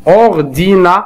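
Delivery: careful syllable demonstration. Shown as a demonstration. Teacher asks learners to listen closely, syllable by syllable. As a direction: punch out each syllable with gaps. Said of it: "استمعوا معي جيدا".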